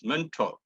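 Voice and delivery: "mentor" as "ment" plus "taw"; correct mentor. Shown as a demonstration. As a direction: say "mentor" ending in a long "taw". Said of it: "The pronunciation is".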